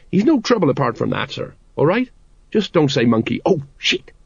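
lightly voiced anxious underling; urgent sergeant. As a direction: warn the captain with mounting urgency. Voices Colon warning Vimes.

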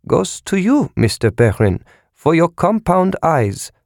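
sneering sarcasm. A narrator's reading. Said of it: "von Einem said".

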